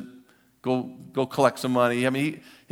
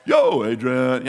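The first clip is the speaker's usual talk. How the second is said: slow yo adrian; 7 dB louder, much slower than usual. Retold or imitated. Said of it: "wherever you put the emphasis".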